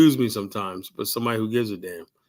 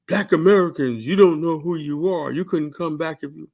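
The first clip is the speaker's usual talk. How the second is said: mock lecturing voice, a bit higher; mocking TikTok lady; 4 semitones higher than usual. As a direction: parody her scolding tone. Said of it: "talking about".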